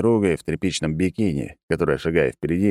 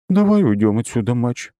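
gloomy; 5 semitones higher, 4 dB louder than usual. A narrator's reading. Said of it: "хмуро произнесла она".

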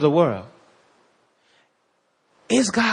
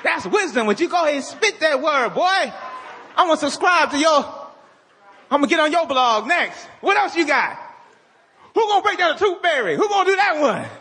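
mock cheering fan; 4 semitones higher than usual. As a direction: egg the blogger on like a fanboy. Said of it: "people watching it like".

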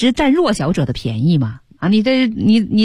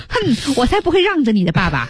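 mock-huffy retort, slightly higher; playing along in role; 4 semitones higher than usual. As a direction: huff it out as a put-on refusal. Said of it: "有的自己已经入戏了". (入戏地假装赌气，哼一声)

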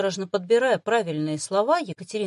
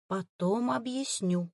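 slow, softer, barely voiced; mouthed whisper; 5 dB quieter, slower than usual. Girl mouths an excuse to her familiar, hushed. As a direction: mouth it so only he sees. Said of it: "прошептала одними губами та".

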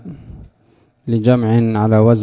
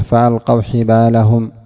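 Quran recitation. Acted. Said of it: "وقال سبحانه".

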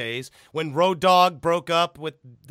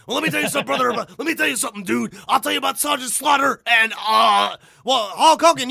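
higher, louder hammed-up wrestler promo with shouts; Hulk Hogan impression; 5 semitones higher, 4 dB louder, faster than usual. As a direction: play a fumbling, shouting wrestler cutting a promo. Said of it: "Hulk Hogan would fuck up all the time".

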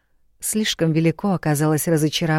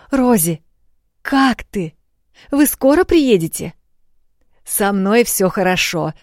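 a lightly voiced, higher and louder young maid, overjoyed; excited maid; 5 semitones higher, 4 dB louder than usual. A narrator's reading. Maid Rosie answers her lady, lightly voiced and glad. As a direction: gush with relief as the loyal maid.

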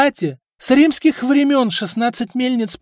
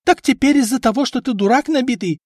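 high, much louder shrill wife's yell; 10 semitones higher, 6 dB louder than usual. A narrator's reading. Wife yelling at husband and apprentices, loud. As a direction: scream at the lazy crew. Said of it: "продолжала орать жена".

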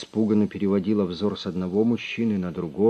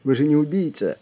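high, loud pleading in panic; frightened plea; 7 semitones higher, 5 dB louder than usual. A narrator's reading. Boss pleading with armed Drongo, frightened. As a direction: beg him not to shoot. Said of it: "взвизгнул хозяин кабинета".

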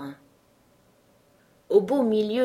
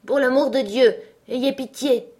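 high, loud plea for mercy; acted anguished begging; desperate cry; 7 semitones higher, 6 dB louder than usual. A narrator's reading. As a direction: cry out, begging for your life. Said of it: "cria la voix".

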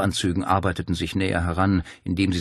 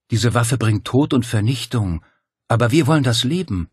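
louder preaching persuasion; fervent, louder cult leader plea; insistent Dario; 4 semitones higher, 5 dB louder than usual. Acted. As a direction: press the message on her.

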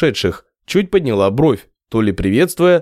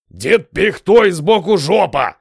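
slow, higher outburst; unrelenting outburst; 7 semitones higher, slower than usual. A narrator's reading. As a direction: keeps hammering, slow and high. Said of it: "не унимался Костоправ". (не унимается, медленно и выше)

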